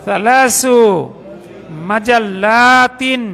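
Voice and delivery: drawn-out syllables; slow Arabic demo. Shown as a demonstration. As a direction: spell it out slowly. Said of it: "তিনটি ম্যাগাজিন।". (ধীরে টেনে উচ্চারণ)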